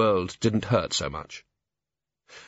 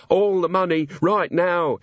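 higher, louder robber's yell; mock scream; 8 semitones higher, 3 dB louder than usual. Robber yelling at the barman for the money. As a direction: demand the money at the top of the voice. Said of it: "he screamed".

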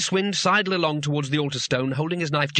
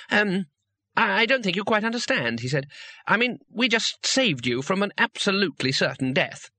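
higher, flustered and hesitant; embarrassed tourist; 6 semitones higher than usual. Acted. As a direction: stammer it out awkwardly. Two Flower embarrassed.

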